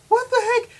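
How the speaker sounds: high, loud burst of disbelief; acted-out bewilderment; baffled outburst. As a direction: exclaim it sharply, pitch shooting up. Acts out bewilderment at locker talker.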